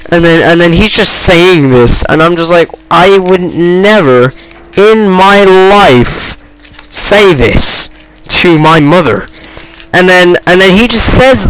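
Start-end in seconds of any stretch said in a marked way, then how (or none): 2.9-9.3 very slow, spaced-out emphasis; stunned disbelief. Retold or imitated. Stunned onlooker would never say this to his mother, slow disbelief. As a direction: drag out each phrase in disbelief. His shocked reaction to the swearing.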